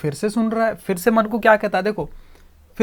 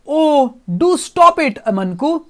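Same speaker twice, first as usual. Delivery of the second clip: angrily; 4 semitones higher, 4 dB louder, much slower than usual. Acted. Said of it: "angrily".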